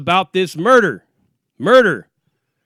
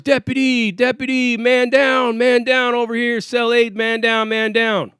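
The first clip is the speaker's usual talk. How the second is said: higher-pitched call for help through the bars; retold call to the guards, pitched up; retold yelling; 4 semitones higher, slower than usual. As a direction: inmates calling the deputy, pitched up. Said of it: "Now they're yelling through the bars".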